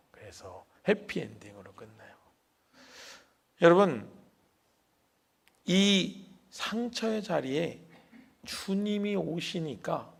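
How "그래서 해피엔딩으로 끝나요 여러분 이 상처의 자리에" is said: normal talking voice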